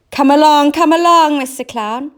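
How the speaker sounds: high, loud, cross cat; a cross cat hurrying the clown along; crossly. A narrator's reading. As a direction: Clever Cat crossly urging the crying clown on. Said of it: "said Clever Cat rather crossly".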